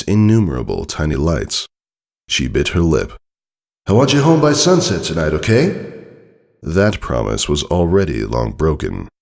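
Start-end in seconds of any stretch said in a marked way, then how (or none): 3.9-5.9 higher, louder caring tone; guardian's reminder. Acted. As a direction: say it like a firm but caring parent. Remembered guardian voiced.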